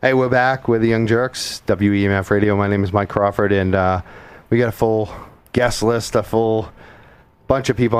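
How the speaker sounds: winded, catching breath between phrases; out of breath from the stairs. Real, not acted. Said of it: "I'm out of breath 'cause I just ran up the stairs".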